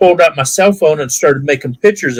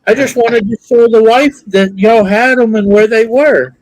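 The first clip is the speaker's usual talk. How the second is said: retold reply; 9 semitones higher, 4 dB louder than usual. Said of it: "I said".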